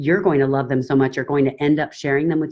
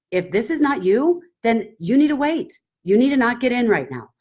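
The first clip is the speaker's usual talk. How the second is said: higher, eager warning to the class; all excited; 7 semitones higher than usual. Retold or imitated. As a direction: sound thrilled while telling them to wait. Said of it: "but I say it like I'm all excited".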